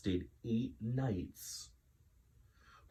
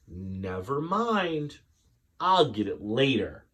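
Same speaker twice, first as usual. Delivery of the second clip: weary resignation; 3 semitones higher, 3 dB louder than usual. Acted. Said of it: "said Missus Greenberg".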